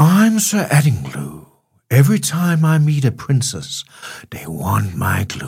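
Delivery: put-on British accent. Asked to redo the knight intro more British, Sir Addinglue in British accent. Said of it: "Skal jeg have en mere britisk gang?".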